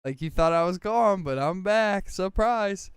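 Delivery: loud, high, sing-song gotcha; taunting surprise. Retold or imitated. Retelling Ruby jumping out at Loki, high mocking taunt. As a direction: pop in teasing, up high and loud.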